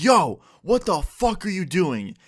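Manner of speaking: high, drawn-out outraged yell; retold scream. Student screams at the classmate who gummed his hair, mock scream. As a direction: re-enact yelling out in disbelief. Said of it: "I start screaming".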